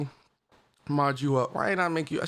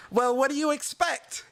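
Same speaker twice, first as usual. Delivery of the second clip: a slightly higher, smug politician voice; gaming politician voice; 8 semitones higher than usual. Shown as a demonstration. Streamer picking a gaming politician voice for a soundbite, lightly smug. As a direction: say it like a smooth politician dodging blame. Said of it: "let's use the gaming politician voice".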